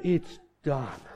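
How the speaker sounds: imitated sick man spending his last breath; exhausted, barely talking. Dying uncle tells Keith, exhausted. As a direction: let it out weakly, with effort. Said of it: "He was so exhausted just from saying that".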